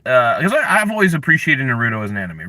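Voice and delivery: normal talking voice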